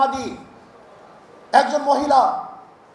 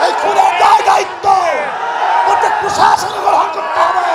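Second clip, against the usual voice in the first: tearful shouting, rising higher and louder; snotty crying; 3 semitones higher, 6 dB louder than usual. Real, not acted. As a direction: voice breaking through tears while yelling. Rally speaker escalates demand for accountability.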